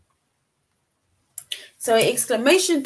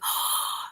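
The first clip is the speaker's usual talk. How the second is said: mock gasp; 7 dB quieter than usual. Shown as a demonstration. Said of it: "if you're telling somebody else".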